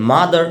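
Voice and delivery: মাদার ending on an open vowel; mother, non-rhotic ending; final R dropped. Shown as a demonstration. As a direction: say মাদার with the last R silent. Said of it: "এগুলোতে রায়ের উচ্চারণ হবে".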